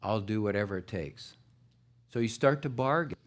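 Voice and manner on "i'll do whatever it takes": softer, bargaining with God; pleading prayer. Retold or imitated. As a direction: plead quietly, almost under the breath. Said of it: "you kinda start bargaining".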